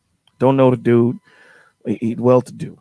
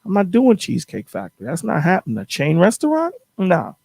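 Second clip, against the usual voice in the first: higher-pitched snooty brush-off; playing the picky date turning her nose up; mock diva refusal; 3 semitones higher than usual. Retelling the date, she haughtily refuses the chain restaurant in a mildly higher voice. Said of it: "she's like".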